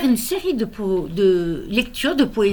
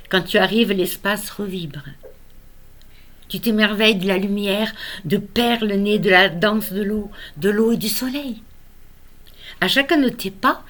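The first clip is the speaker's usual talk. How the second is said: lyrical recital, emphatic line openings easing off at the ends; measured, tender poetry recitation; poem reading. Acted. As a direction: read verse in wonder at a small child.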